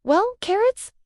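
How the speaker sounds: dry, mocking jab at her; sarcastic. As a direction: say it with a sarcastic edge. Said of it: "Nick sarcastically says to her".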